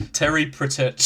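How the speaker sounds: "Pratchett" stumbled over, laughing; botched pronunciation. Pretend. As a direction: garble "Pratchett" as pruh-TETCH, amused. Deliberately mangles the known name, laughing.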